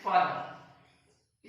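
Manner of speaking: फादर drawn out as "faw-dah"; slow demo word. Shown as a demonstration. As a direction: stretch फादर slowly. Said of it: "इसे ऐसे बोलते हैं".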